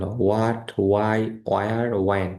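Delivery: "what, why, where, when" each starting on a plain w; "what, why, where, when" as wat, wai, wayar, wayen; silent h. Shown as a demonstration. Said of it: "এই চারটাতেই এইচ উচ্চারণ আসবে না".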